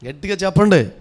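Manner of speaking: loud rallying command. Real, not acted. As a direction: push the crowd to shout back. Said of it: "అరిసేది గట్టిగా అరవచ్చుగా". (గట్టిగా అరవమని ప్రోత్సాహం)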